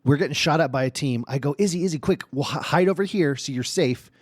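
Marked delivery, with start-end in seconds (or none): 1.6-4.1 raised, urgent retold call; acted urgent dad directions; urgent warning. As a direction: hurry her to cover, voice pitched up. Dad urging daughter under fire.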